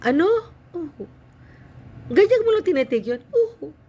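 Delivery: high, loud astonished cries; shocked priest. Retold or imitated. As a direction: shriek in disbelief at the news. Priest shocked at her news.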